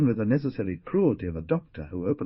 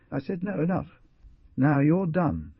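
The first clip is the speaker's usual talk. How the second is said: a voice cracking with strain, higher; barely holding together, tired and beaten; broken voice; 8 semitones higher, 3 dB louder than usual. A narrator's reading. Man ending a painful scene with his mother, broken voice. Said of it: "he added with a broken voice".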